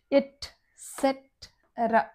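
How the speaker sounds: ఎట్సెటరా very slowly as et, set, era; soft, slow teaching model of ఎట్సెటరా; syllable-by-syllable. Shown as a demonstration. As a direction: break ఎట్సెటరా into spaced pieces. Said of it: "ఎక్సెట్రా కాదు అది".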